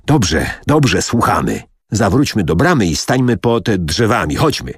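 ordinary delivery, nothing marked

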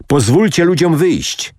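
high-pitched narrated call. A narrator's reading. Ben Hur demands the crowd be let out, calling out. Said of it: "zawołał Ben Hur".

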